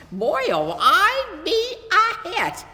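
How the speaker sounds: put-on excited boy. A narrator's reading. Boy picturing himself at school, thrilled and loud. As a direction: let it burst out of him, thrilled. Boy dreaming of being popular.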